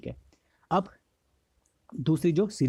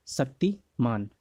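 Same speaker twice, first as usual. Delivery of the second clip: drawn out slowly; much slower than usual. Shown as a demonstration. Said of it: "Shaktimaan भी करे मना".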